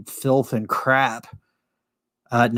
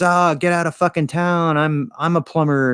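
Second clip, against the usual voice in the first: higher, incredulous exclamation; mock disbelief; 5 semitones higher than usual. Stranger hearing his new friend is a plumber, mock amazed. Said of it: "the guy he's talking to goes".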